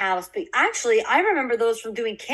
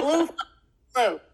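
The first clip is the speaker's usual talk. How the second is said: repeating loudly; 5 semitones higher than usual. Real, not acted. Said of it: "Hold on, one more time".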